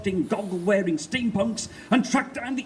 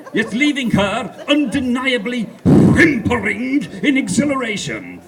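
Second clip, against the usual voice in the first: laughing; 6 semitones higher, 8 dB louder than usual. A narrator's reading. Narrator relishing innuendo.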